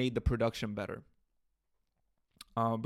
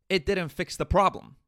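exasperated outburst; 6 semitones higher, 7 dB louder than usual. Real, not acted. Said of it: "repeated line".

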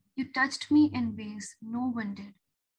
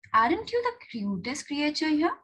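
higher-pitched fond question; cooing to a pet; 5 semitones higher than usual. Acted. Speaker to the cat cuddling with her, cooing. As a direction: coo sweetly at an adored pet.

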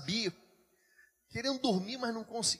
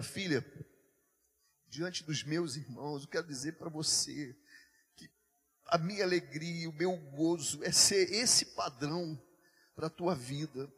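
real, heartfelt vow; tender declaration; 4 semitones lower than usual. Real, not acted. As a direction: speak earnestly and lovingly, taking time. Public love declaration to his wife.

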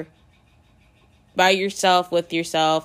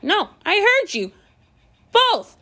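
high mock indignant; 12 semitones higher, 3 dB louder than usual. Retold confrontation.

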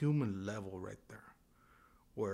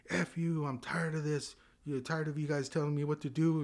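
retold angry refusal; 5 semitones higher, 4 dB louder than usual.

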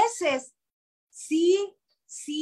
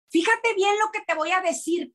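a firm talking-to aimed at herself, pitched higher; firm self-pep talk; stern self-talk; 6 semitones higher than usual. Retold or imitated. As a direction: scold yourself into action. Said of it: "me lo dije a mí misma".

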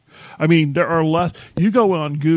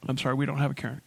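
retold phone reply; 2 semitones lower, 8 dB quieter, much faster than usual. Office worker answering a wrong-name phone call, retold phone reply. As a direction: politely turn the caller away in an undertone. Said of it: "even better on the phone".

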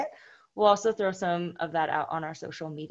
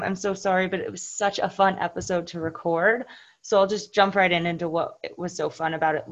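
raspy voice. Real, not acted. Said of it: "sorry for my raspy voice".

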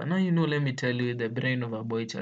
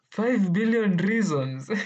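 laughing exaggeration; 7 semitones higher, 5 dB louder than usual. Real, not acted.

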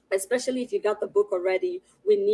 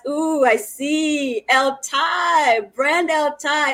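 excited; 5 semitones higher, 4 dB louder, much slower than usual. Real, not acted. Excited spotting a viewer.

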